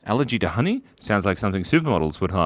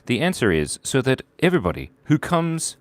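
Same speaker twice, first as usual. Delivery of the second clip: muffled voice inside a bucket; bucket on head. Real, not acted. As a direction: talk with a bucket over your head. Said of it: "Why do you have a bucket on your head?".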